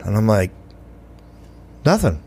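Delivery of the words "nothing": higher innocent nothing; mock innocent. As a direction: play dumb to the cop. Caught, pretends innocence.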